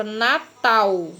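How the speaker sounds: "Natal" with the L sounded like the vowel U; "Natal" pronounced as if written Natau; final L as U. Shown as a demonstration. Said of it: "tivesse a vogal U".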